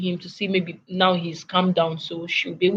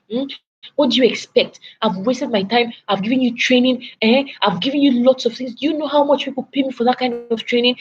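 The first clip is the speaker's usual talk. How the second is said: shrill, higher, scolding rant, building to outrage; imitating angry boss; 4 semitones higher than usual. Boss scolding a departing employee, imitated higher furious rant. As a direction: play the boss tearing into her, pitch climbing. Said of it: "The man got so angry".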